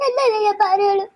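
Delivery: mild tearful plea, voice catching; tearful pleading. Acted. Hurt little sister pleading with her family, tearful. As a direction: plead through held-back tears.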